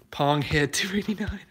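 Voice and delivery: laughing. Real, not acted. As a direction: start reading it and crack up. Cracking up at a viewer's nickname.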